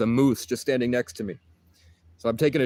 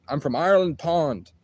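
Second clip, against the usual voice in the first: higher-pitched mock Scottish accent; imitated Scottish accent; 4 semitones higher than usual. Narrator repeating the giant stranger's words, imitated Scottish accent. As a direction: repeat "Ireland Pond" in a Scottish lilt. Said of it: "but with his accent, it's Ireland".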